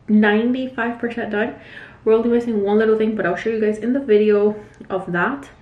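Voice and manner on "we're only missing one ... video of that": breathless, shallow breathing. Real, not acted. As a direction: talk short of breath. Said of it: "Sorry I'm out of breath".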